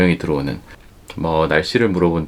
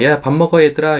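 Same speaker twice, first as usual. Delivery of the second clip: calling out; 8 semitones higher, 5 dB louder than usual. Retold or imitated. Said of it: "이렇게 말을 하는 그런 무전기로도".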